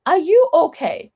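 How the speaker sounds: casual mock concern. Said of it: "So casually, like".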